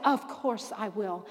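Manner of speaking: slow, mock-saintly reply; playing the patient holy wife, slowly; a hint of a pious sing-song; holiest voice. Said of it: "in my holiest voice".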